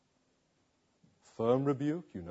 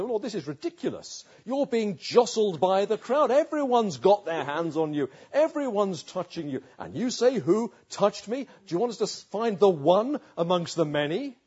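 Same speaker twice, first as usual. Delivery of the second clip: exasperated disbelief, a little higher; incredulous; 4 semitones higher, 4 dB louder than usual. Acted. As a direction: protest that it's absurd. Disciples incredulous at Jesus.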